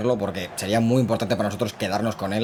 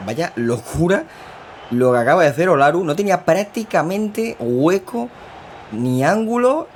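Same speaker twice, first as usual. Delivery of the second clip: amazed exclamation; 6 semitones higher, 4 dB louder than usual. Real, not acted. Marvels at impossible goal.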